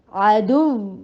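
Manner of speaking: عدو with voice rising then falling on وّ; stress on doubled waw. Shown as a demonstration. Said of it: "نبر ہوگی، آواز اوپر جا کے نیچے آئے گی". (عدو میں واو پر نبر)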